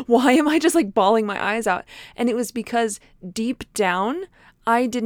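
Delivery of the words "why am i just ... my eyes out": mock bewildered wail. Retelling baffled crying at nurse's office.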